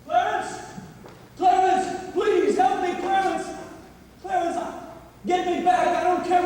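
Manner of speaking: begging the angel to bring him back; desperate calling. Acted. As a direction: cry out to be saved. George desperately calls the angel.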